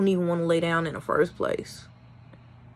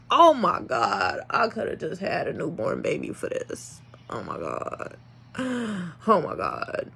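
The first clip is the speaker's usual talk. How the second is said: acted weary groan; 5 dB quieter than usual. Owner woken at night to nurse puppies, acted weariness. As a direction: re-enact an exhausted sigh of complaint. Retelling exhausted night wake-ups.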